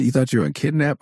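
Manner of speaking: high mock-incredulous dad voice; exasperated dad. Dad mocking his kid's nightmare, high and incredulous.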